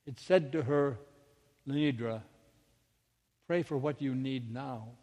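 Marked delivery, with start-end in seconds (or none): 1.7-4.9 quietly steady, measured inner voice; calm solid voice. Retold or imitated. Voice inside her head instructing her, strong and calm. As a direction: speak with settled authority, pausing after the name. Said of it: "It was a strong, calm, solid voice".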